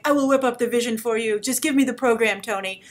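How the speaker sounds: put-on light Eastern European accent; lightly voiced Eastern European accent, Edna Mode style; Andy Warhol Eastern European accent. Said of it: "my Andy Warhol has an Eastern European accent".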